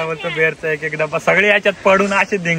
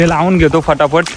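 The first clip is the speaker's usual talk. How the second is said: normal talking voice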